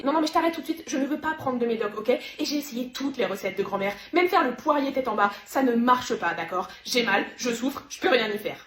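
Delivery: worn-out, emphatic protest; exasperated. Acted. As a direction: cut off the advice in irritation, with loud bursts. Refuse les conseils, souffre des règles.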